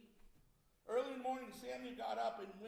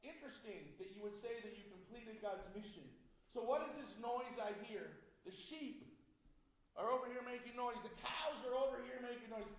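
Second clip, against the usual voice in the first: sarcastic humor; 3 semitones higher, 3 dB louder than usual. Retold or imitated. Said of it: "Samuel might have had a little sense of humor".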